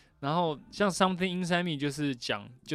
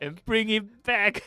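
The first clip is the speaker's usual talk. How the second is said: high, drawn-out magician's flourish; triumphant reveal; 7 semitones higher, 4 dB louder than usual. Acted. Magician bringing the vanished thing back, triumphant. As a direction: build it up and land big on back.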